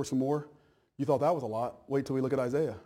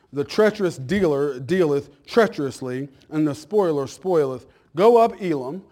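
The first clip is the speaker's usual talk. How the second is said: louder, emphatic Bible reading; scripture reading; 6 dB louder than usual. Real, not acted. Pastor reading Isaiah's vision to church, louder preaching delivery. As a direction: proclaim the verses firmly and loudly.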